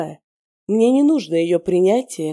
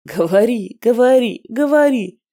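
parroting his command, rising louder each time; mocking repetition; 4 semitones higher, 4 dB louder than usual. She mocks his repeated order, building sneer. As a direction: mimic his nagging, building up. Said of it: "только и твердил".

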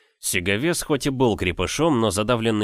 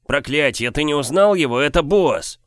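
yelling; 6 semitones higher, 4 dB louder than usual. Acted. Young man shouts at his drunk brother who the giant is, loud yell. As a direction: drag the name out as a furious warning. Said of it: "заорал я".

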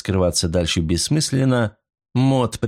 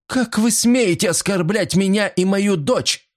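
high outraged cry; indignant outrage; 12 semitones higher than usual. A narrator's reading. Mrs Creel crying out at the detective, high and indignant. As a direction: defend herself and her daughter fiercely.

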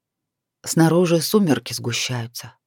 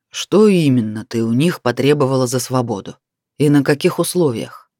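lower, hoarse, coaxing voice; husky and insinuating; 4 semitones lower than usual. Acted. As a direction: lean in with a raspy purr. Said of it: "голос неожиданно изменился, стал хрипловато-вкрадчивым".

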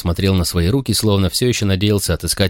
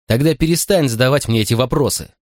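a hurt, raised outcry; pained exclamation; 5 semitones higher than usual. Acted. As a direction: snap back as if wounded. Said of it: "воскликнул он с такой болью в голосе".

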